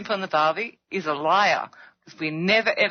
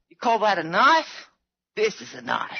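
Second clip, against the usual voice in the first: lightly imitated Aussie movie hero; Crocodile Dundee. Australian quoting a film, light movie-hero impression. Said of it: "Oh, Crocodile Dundee".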